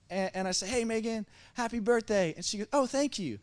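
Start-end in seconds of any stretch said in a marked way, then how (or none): 0.7-2.3 high-pitched imitation of a kid's greeting; retold cheery greeting. Retold greeting to party girl. 2.7-3.4 put-on very high-pitched girlish thanks; imitated girl's reply. Voicing birthday girl's reply.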